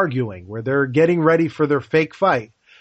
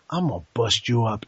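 lower, softer pitying threat; Mister T; 6 semitones lower, 5 dB quieter than usual. Retold or imitated. Clubber Lang sizing up Rocky before the rematch, low pitying threat. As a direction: say it low and quiet, like you pity him. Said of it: "I always loved Mister T's delivery on this".

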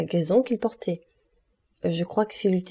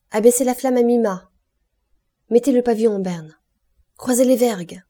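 loud, higher deck commands; shouted orders; 5 semitones higher, 8 dB louder than usual. Acted. Dantès gives the crew orders for the flags and yards, calling out. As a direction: call orders across the ship.

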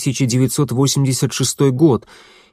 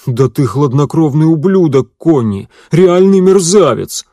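louder, higher, bitter jeering cry; bitter accusing outburst; 5 semitones higher, 7 dB louder than usual. Acted. Bruno to Conni, bitterly accusing, raised voice. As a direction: spit it at him like an accusation. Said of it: "невесело рассмеялся".

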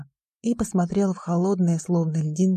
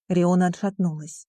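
ordinary delivery, nothing marked

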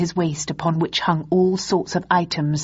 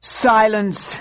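commanding shout; 4 semitones higher, 3 dB louder than usual. Acted. Acheron silencing his comrades.

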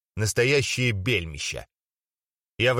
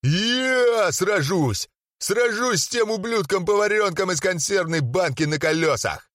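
angry challenge; 7 semitones higher than usual. Acted. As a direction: snarl the challenge at him. Зарычал.

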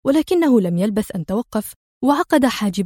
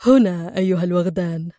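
a hint of cold sneering contempt; lightly mock them, icy and unbothered; cold mockery; 3 semitones lower than usual. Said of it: "في صوت ساخر بارد".

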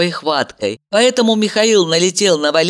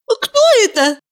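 high woman's question; curious woman; 4 dB louder than usual. Acted. Valeria asking about call.

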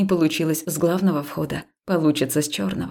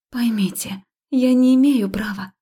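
firm and strict; stern; 6 semitones higher than usual. A narrator's reading. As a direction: put it sternly, no give. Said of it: "строго ответила Катя".

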